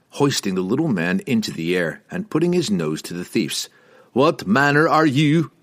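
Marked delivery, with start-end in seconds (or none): 4.1-5.5 scowling. A narrator's reading. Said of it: "Wulfgar scowled".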